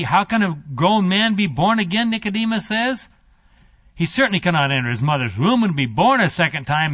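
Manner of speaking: incredulous question with wide pitch swings; lightly acted sceptic, sarcasm creeping in; building sarcasm. Nicodemus questioning Jesus about being born again, with building sarcasm. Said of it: "the sarcasm is starting to build".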